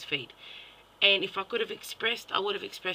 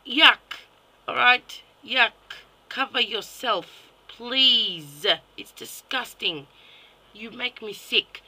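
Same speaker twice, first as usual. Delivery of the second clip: loud, punched-out exclamations; revolted and fed up; disgusted scolding; 3 semitones higher, 8 dB louder, slower than usual. Real, not acted. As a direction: draw out the plea in loud exasperation.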